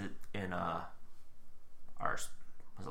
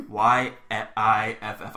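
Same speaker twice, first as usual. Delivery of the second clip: letter by letter, slowly; slow spelling; 3 semitones lower, 3 dB louder, much slower than usual. Shown as a demonstration. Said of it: "spelling the word".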